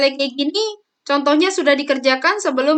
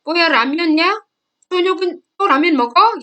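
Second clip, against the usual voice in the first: higher, rapid exasperated questioning; mock scolding; 4 semitones higher, 3 dB louder, much faster than usual. Older sibling catching the younger eating noodles, mock scolding. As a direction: act out a nagging older sibling.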